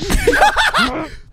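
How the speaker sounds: real high-pitched cackling laugh; high burst of laughter. Real, not acted. Viewer reacting to the bouncing ball, high laughter.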